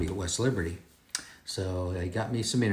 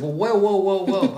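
teacher calming her; 11 semitones higher, 8 dB louder than usual. Retold or imitated. Teacher stops the girl mid-story, raised calming whoa. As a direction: rein her in, raised and quick.

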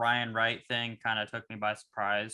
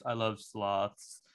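slow, flat deadpan delivery; 2 semitones lower, 4 dB quieter, much slower than usual. Retold or imitated. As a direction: say it totally deadpan, slowly. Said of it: "in a really deadpan voice".

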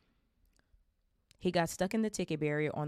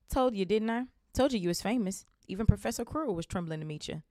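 hearty giant; 5 semitones higher, 5 dB louder than usual. Acted. Hagrid cheerfully to Harry.

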